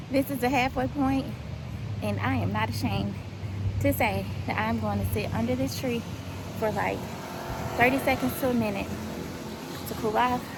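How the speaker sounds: winded from the run; out of breath. Real, not acted. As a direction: talk while catching breath. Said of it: "catch my breath".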